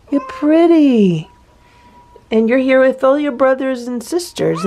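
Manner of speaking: high, coaxing voice for a scared cat; soothing pet talk. Real, not acted. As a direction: coax the cat gently.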